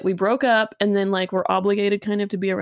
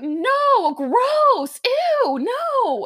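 much higher mock squeal of disgust; squeaky grossed-out; 13 semitones higher, much slower than usual. Ex voiced as grossed out.

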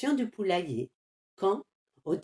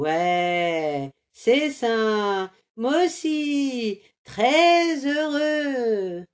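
slow, drawn-out sarcasm; sarcastic; 4 dB louder, much slower than usual. Acted. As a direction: drag out the fake joy. Ironie de Carmelito déçu. (Carmelito, déçu, dit lentement et ironiquement qu'il est heureux)

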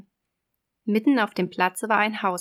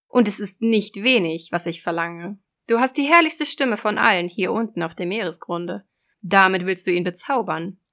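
loud, raised sea witch; 4 dB louder than usual. Acted. Witch voice in fairy tale.

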